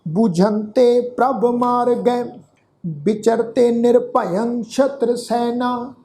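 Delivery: slow, measured Gurbani recitation; scripture recitation. Shown as a demonstration. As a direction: draw out each word of the verse, evenly paced. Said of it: "ਇਸ ਦਾ ਪਾਠ ਰਲ ਮਿਲ ਕੇ ਉਚਾਰਨ". (ਹੌਲੀ, ਠਹਿਰ ਕੇ ਗੁਰਬਾਣੀ ਪਾਠ)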